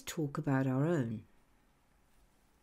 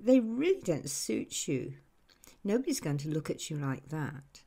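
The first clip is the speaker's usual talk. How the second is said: condescending tone. Retold or imitated. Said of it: "Listen to the tone of voice".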